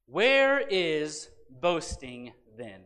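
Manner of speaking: slow, weighty reading of a verse; solemn, spaced-out Bible reading; scripture reading. Acted. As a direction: read the verse out slowly to a congregation. Reads scripture aloud.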